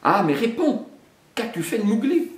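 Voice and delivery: high, loud demand; roaring panther. Acted. Bagheera demands where Mowgli is, angry roar. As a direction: roar the question at him. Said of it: "rugit la panthère".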